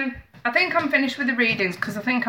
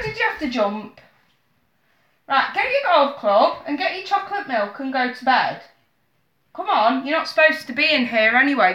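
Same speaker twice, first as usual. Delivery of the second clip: scolding mum; 5 semitones higher than usual. Real, not acted. Mum scolding kid to bed.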